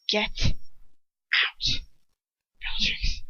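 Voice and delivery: whispered cold order; cold dismissal. A narrator's reading. Lucius coldly dismissing Bellatrix.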